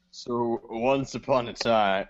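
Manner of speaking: a tentative fairy-tale opening; half-hearted story voice. Pretend. Guest asked for a story voice before giving up, half-hearted. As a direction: start like a storyteller, only lightly put on. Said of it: "a good story voice".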